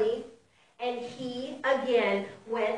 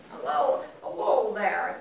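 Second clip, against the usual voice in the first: lightly voiced old mouse; 6 semitones lower than usual. Storyteller searching for the old mouse's voice, tentative character voice. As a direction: try out a wobbly-start old mouse greeting. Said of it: "I need my old mouse voice".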